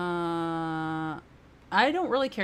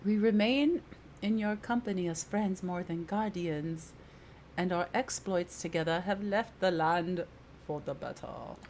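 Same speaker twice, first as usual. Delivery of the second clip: tentative put-on character voice, formal wording; unsure attempt at a companion's voice; lightly voiced companion. Companion calling the party friends, in lightly put-on voice. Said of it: "I don't know how to do her voice".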